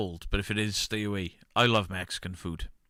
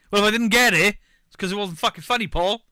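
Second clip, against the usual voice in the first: loud, higher, fast indignant rant; indignant outburst; 10 semitones higher, 8 dB louder than usual. Real, not acted. Defending himself to Paul, indignant loud outburst. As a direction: snap back at Paul, louder and higher.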